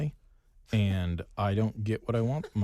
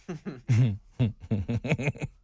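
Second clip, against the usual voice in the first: cackling Mister Burns laugh; an evil, gleeful cackle; maniacal laugh; 4 semitones higher than usual. Real, not acted. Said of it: "maniacal laugh there".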